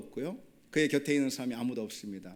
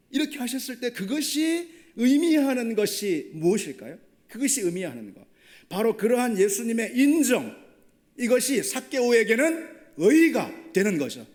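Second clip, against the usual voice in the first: loud, high, impassioned sermon climax; preaching at full force; 6 semitones higher, 7 dB louder than usual. Acted. Preacher tells the congregation about Jesus's acceptance, loud and fervent. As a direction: drive the point home to the congregation.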